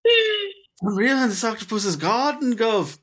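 put-on Cockney accent. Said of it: "That's like a Cockney thing".

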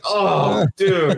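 high, drawn-out groaning sympathy; acted-out pained disbelief; retold dismay. Reacting to the news in story.

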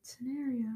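"Scenario" with an American "air" in the middle; the "right way". Shown as a demonstration. Friend showing the others the right way, American "Scenario". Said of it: "The right way".

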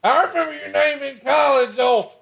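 very high, hammed-up redneck voice; squeaky put-on camper voice bragging to his wife; mock hillbilly husband. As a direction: play the cocky backwoods husband, way up high. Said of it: "You're like".

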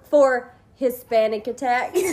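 punchline bursting with laughter; laughing through punchline. Real, not acted. Telling sisters the joke, laughing through it. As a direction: giggle out the punchline.

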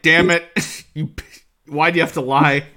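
a playful fake rage at being lied to; mock frustrated outburst. Grievous fakes a furious shout at Dooku. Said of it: "he's like".

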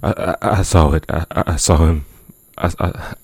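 shaken stammer, tripping on I; can barely get the words out; stammering in shock. Acted. Stammering after seeing the ghost.

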